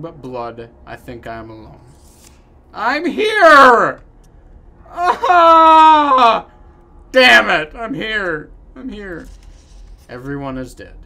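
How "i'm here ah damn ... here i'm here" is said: much higher, screaming to be heard; desperate shout. Pretend. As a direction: yell out for anyone alive. Screaming out to be found.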